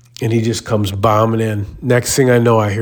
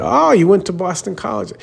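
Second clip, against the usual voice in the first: 1 mocking jab; 9 semitones higher than usual. Gym guy's final jab.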